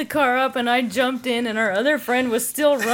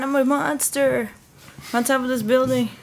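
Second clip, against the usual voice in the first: mock monster boast; 4 semitones higher than usual. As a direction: ham up a rooftop monster. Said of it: "he's like".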